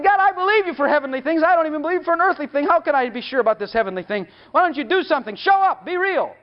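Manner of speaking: indignant prayer rising to a high show up; retold angry prayer. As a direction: demand that God show up. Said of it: "I was mad".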